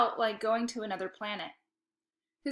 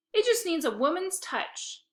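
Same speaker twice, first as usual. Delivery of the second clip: higher, sweet big-sister voice; smiling sister; 7 semitones higher than usual. A narrator's reading. Sister teasing dad about his messy apartment. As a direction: say it with a smile. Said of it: "said Lexi with a smile".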